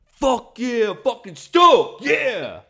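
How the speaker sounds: high, stoked mock cheer; mock excited dad. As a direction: whoop it up in sarcastic, over-the-top excitement. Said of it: "there's no dude who's having a girl and he's like".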